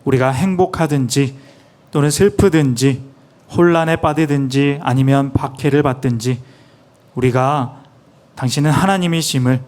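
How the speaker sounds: reverent prayer, measured and steady; interpreted prayer. Acted. Interpreter praying in Korean for the church, reverent. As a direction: pray it humbly for the people.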